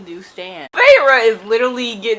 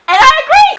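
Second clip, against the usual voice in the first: much higher, louder declaration; emphatic agreement; 12 dB louder than usual. Real, not acted. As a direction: shout your agreement triumphantly. Siding with Tamlin emphatically.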